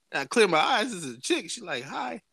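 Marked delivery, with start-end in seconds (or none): 1.8-2.2 high, soft mock-sweet hello; friendly greeting. Woman greets the man waking up, mock-sweet. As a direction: imitate a nice, high-voiced greeting. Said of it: "being all nice and shit".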